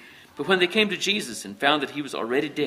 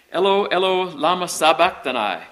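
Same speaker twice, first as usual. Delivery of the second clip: loud, raised cry of anguish; 4 semitones higher, 6 dB louder than usual. A narrator's reading. Jesus on the cross at the ninth hour, crying out. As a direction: cry out, slowing on the last words. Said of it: "cried out in a loud voice".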